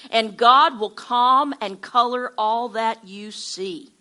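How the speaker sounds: slow, deliberate reading aloud; devotional reading. Acted. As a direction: read it out slowly, weighing each key word. Reads devotional passage aloud.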